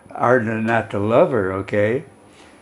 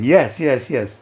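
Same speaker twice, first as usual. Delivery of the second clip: vigorous; 3 semitones higher, slower than usual. Retold or imitated.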